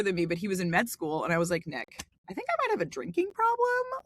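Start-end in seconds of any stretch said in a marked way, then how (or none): 1.7-4.0 tearful plea. Retold or imitated. Retold call to brother.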